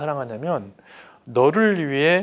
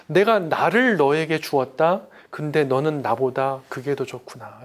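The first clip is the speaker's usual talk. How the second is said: God's tender voice; slower than usual. Acted. Voicing God speaking to him.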